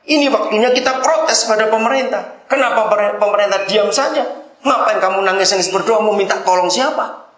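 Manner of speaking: high-pitched indignant protest; mock angry yelling. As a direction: act out an outburst you wanted to shout. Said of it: "Saya tuh mau berteriak".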